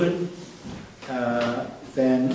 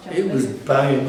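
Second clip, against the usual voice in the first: laughing. Real, not acted. Recalls the great bar, laughing.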